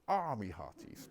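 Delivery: put-on slow, lightly done West Country pirate accent. Speaker recalls the movie pirate, slow, light West Country accent. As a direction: draw out a mild West Country pirate line. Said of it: "the fact that we think pirates say".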